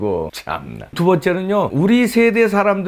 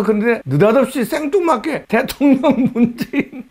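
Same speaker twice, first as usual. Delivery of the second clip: higher, laughing at the absurd entry; laughing in disbelief; 8 semitones higher than usual. Real, not acted. (어이없어 웃으며)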